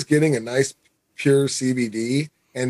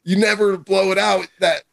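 laughing; 6 semitones higher than usual. Real, not acted. Laughing while explaining.

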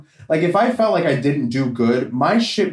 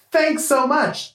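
mimicking Rue; 11 semitones higher, slower than usual. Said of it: "where she's like".

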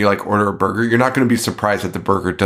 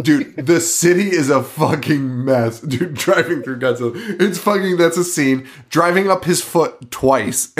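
worked-up, higher-pitched comic outrage; exasperated rant; 4 semitones higher than usual. Real, not acted. Film fan fuming to co-host about the cab chase, exasperated rant. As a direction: rant in amused disbelief. Ranting about an infuriating movie scene.

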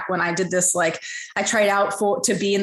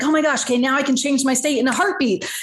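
higher-pitched excited gush, retold; super excited; 5 semitones higher than usual. Seminar junkie reliving a Tony Robbins event, super excited. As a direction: re-enact getting all excited at the promise. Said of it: "I got super excited".

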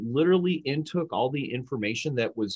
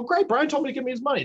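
high-pitched sarcastic glee; mock delight; faster than usual. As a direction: play a gullible stranger, thrilled, pitched way up. Mock reply of a stranger on street.

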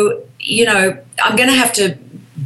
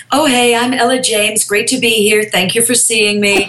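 polite American casting-room greeting; chirpy audition hello, American accent; 2 semitones higher than usual. Acted. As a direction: introduce yourself in a put-on American accent. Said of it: "have to learn to speak American".

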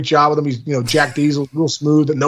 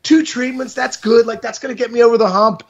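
forced optimism; 6 semitones higher than usual. Retold or imitated. Pretending the treatment is working.

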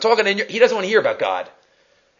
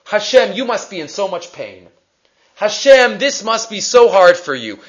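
crying out to Hashem. Retold or imitated. Preacher voicing a congregation crying to Hashem, pleading. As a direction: pour out grief to God, mock-pleading. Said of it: "we cried to Hashem".

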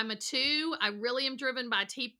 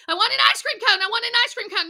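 put-on much higher, louder toddler whine; hammed-up whining kid; whiny toddler; 10 semitones higher, 11 dB louder, faster than usual. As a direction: beg for ice cream like a cranky two-year-old. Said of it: "this kid can be like".

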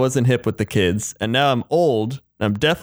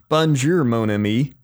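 put-on French accent. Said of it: "Gambit from X-Men".

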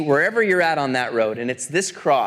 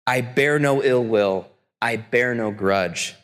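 tender. Shown as a demonstration. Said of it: "What tender words".

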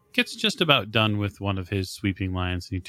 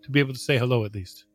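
put-on higher-pitched Italian-accented English; 4 semitones higher than usual. Station sweeper chats with a visiting traveller, Italian accent. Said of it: "You hear his Italian accent".

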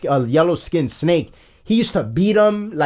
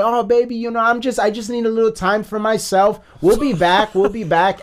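higher-pitched mock placating woman; dismissive brush-off; 5 semitones higher than usual. Woman brushing off the man begging her to stay, mock dismissive. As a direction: imitate a woman airily putting her partner off. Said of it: "she was so dismissive".

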